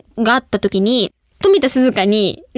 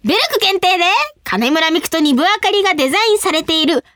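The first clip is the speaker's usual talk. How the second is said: high, punched-out phrases building to a cheer; excited announcement; 9 semitones higher, faster than usual. Real, not acted. Host revealing their own cup noodle collaboration, excited announcement.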